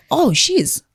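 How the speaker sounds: whispered, mock-smug inner thought; hushed, joking self-delusion; secret thought. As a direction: whisper the hopeful conclusion to yourself. Imagined guy's inner thought.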